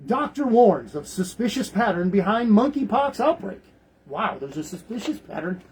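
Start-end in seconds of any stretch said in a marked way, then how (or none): 0.0-3.6 mock-formal headline read; lightly put-on announcer tone for the headline; official voice. Shown as a demonstration. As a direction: read it like a stiff official bulletin. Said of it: "I'm gonna use the official voice".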